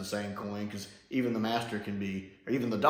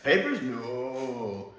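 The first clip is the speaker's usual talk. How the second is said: slow "Papers, no" at normal level; lighter Jamie imitation; much slower than usual. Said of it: "I love the way Frasier does that".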